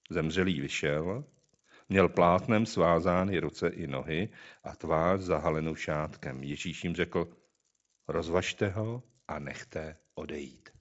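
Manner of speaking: measured, solemn Bible reading; scripture reading. Acted. Reads Gospel of John aloud. (slavnostní čtení Písma)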